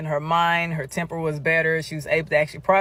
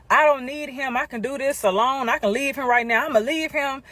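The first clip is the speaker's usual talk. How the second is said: upset friend; 7 semitones higher than usual. Retold or imitated. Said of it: "She starts saying".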